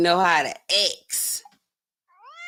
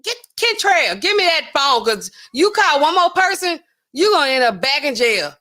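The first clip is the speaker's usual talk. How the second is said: mock scolding; 5 semitones higher, 4 dB louder than usual. Imagined scolding, calling out.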